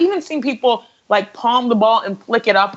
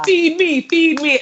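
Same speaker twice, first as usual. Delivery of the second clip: acted eager demand; 6 semitones higher, slower than usual. Acts out player demanding the ball.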